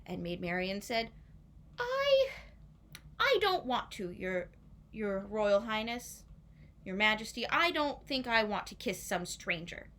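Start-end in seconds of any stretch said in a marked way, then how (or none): 1.8-9.9 timid protest; nervous refusal. Acted. Marian nervously refusing the king.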